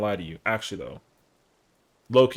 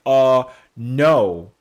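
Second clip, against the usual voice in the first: nervous refusal; 7 dB louder than usual. Retold or imitated. Declining to stay over.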